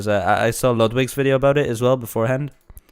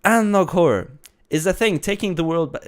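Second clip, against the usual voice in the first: YouTube intro voice; 4 semitones higher than usual. Pretend. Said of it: "let's do a YouTube intro".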